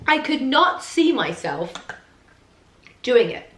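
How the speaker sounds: talking right after a sip of water; while sipping a drink. Real, not acted. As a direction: speak just after swallowing water. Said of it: "Let me have a sip of water".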